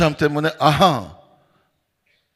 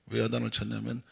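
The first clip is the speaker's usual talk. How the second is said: normal talking voice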